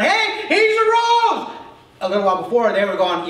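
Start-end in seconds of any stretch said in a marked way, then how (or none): 0.0-1.5 high, loud, slow hollered news; hollering. Acted. The ten yelling at Thomas, hollering loud. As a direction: yell it across the room. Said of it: "yelling at him and hollering".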